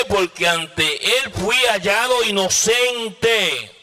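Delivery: high, slow declamation; preached answer to a king; proclaiming reply. Acted. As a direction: stretch the last word out triumphantly. Preacher voices Daniel answering the king.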